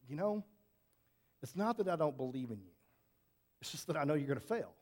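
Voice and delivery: low, understated imitation of a mentor; heartfelt, stern. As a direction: quote him softly, with heart. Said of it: "with just such heart about him".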